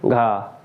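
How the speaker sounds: घा slow, with a strong breathy push; aspirated gha. Shown as a demonstration. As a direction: stretch घा out with a heavy puff of air. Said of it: "घा पर ज़्यादा जोर दिया". (घा ज़्यादा जोर और हवा के साथ, धीरे)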